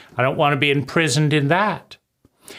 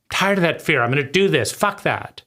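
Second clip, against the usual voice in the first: impatient defiance. Retold or imitated. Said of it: "an impatient reaction".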